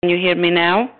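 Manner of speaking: distant voice on a crackling line; calling through a cutting-out phone; fading in through static. Real, not acted. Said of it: "we lost you".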